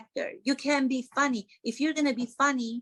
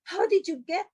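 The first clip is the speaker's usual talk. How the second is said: mock surprise; 6 semitones higher than usual. Mock shock at Harry.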